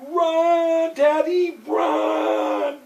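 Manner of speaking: put-on high, loud child's scream of warning; shrieking run daddy run; frantic shout. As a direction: yell at him to run for his life. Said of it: "And all she goes".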